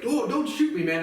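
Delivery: high-pitched mock panic; imitating a scared plea with the voice pushed way up; mock pleading. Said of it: "And he's like".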